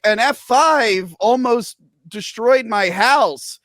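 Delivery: slow, lightly hammed-up movie monologue; mock dramatic recounting, drawn out; a hint of a tragic origin story; imagined character backstory.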